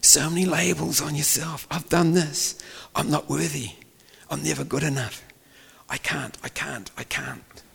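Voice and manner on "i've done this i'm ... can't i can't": high, softening self-condemnation; acted self-doubt. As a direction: voice a defeated inner critic, fading away. Voices people's self-condemning labels.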